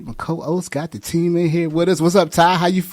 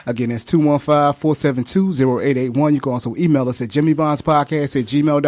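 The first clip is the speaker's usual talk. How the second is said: radio announcement read. Acted. Host reads contact info.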